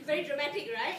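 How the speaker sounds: laughing out the words very dramatic; a real laugh spilling into the comment. Real, not acted. Teacher laughs at the dramatic student video, amused.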